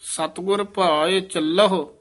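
careful phrase falling to rest on ਚੱਲਹੁ; pause after ਚੱਲਹੁ. Shown as a demonstration. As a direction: finish at ਚੱਲਹੁ and stop. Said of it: "ਇੱਥੇ ਵਿਸਰਾਮ".

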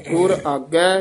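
ਆਗੈ lifted, then a brief halt; slight pause after ਆਗੈ. Shown as a demonstration. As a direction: stop briefly once ਆਗੈ is said. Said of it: "ਇੱਥੇ ਠਮਕ". (ਆਗੈ ਤੇ ਠਮਕ)

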